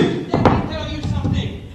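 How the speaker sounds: modelling an entitled customer's line; Karen demo. Shown as a demonstration. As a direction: show the pushy Karen opener. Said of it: "do that thing that all Karens do".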